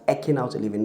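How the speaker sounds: EKING said as "ECK-ing", short E; mispronounced. Shown as a demonstration. Teacher quoting how people say eking, mispronounced. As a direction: say EKING to rhyme with "trekking". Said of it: "People pronounce it as".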